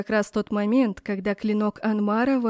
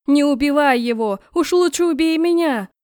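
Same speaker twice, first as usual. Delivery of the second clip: higher, louder desperate begging; a desperate outcry to spare her brother; desperate plea; 6 semitones higher, 6 dB louder than usual. A narrator's reading. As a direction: beg him with everything, near hysteria. Begging him to kill her instead.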